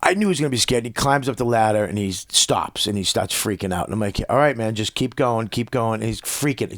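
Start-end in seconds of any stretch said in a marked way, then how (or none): 4.3-6.0 gentle encouragement. Retold or imitated. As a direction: gently coax a scared kid onward. Coaxing his scared son up ladder.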